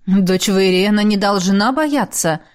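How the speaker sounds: brisk, upbeat, a bit slow; cheerful encouragement. Acted. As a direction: buck her up cheerfully. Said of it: "бодренько сказал я". (бодренько, ободряюще)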